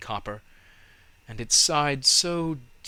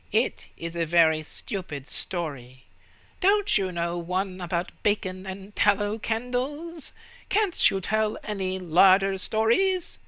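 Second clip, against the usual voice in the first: higher, sniffy rat voice; a higher, bored little rat, unimpressed; scornful rat; 9 semitones higher, 3 dB louder than usual. A narrator's reading. Rats complain to the tree.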